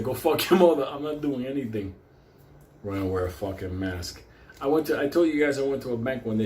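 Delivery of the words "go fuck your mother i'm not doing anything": mock angry outburst, louder at the start; defiant retort. To the bank teller, a mild mock angry retort. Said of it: "I was like".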